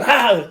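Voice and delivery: high mock yell "ah!"; short high-pitched cry of "ah"; mock startling yell. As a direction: imitate someone yelling to startle, without full volume. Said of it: "alguien viene y nos grita".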